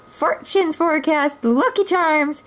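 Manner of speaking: a hawker calling her wares; fortune teller voice. Acted. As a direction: Robin disguised, hawking fortunes. Robin disguised as gypsy woman.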